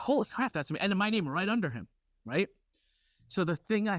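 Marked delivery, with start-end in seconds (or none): 0.0-0.8 excited shout. Retold or imitated. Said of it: "I was like".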